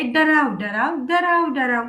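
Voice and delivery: lightly imitated frog croaking, each word bounced. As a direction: playfully croak it like a frog for the kids. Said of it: "तो कसा ओरडतोय?".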